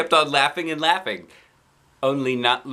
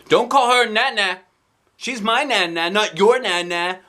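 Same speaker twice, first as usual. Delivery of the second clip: grouchy; 9 semitones higher, 4 dB louder than usual. Acted. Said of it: "looked grouchy".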